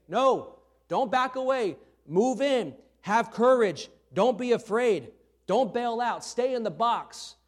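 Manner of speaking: loud, high coaching shout from the sidelines; coach yelling. Retold or imitated. Coach shouting at a scared young batter, loud and high. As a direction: bark it like a Little League coach. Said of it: "The coach is gonna be yelling at them".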